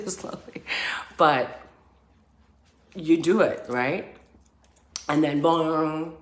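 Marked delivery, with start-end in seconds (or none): 0.1-0.6 unvoiced whispered word. Real, not acted. Describing the freeze, a whispered word. 5.1-6.1 dramatic boom. Real, not acted. Dramatic sound effect boom.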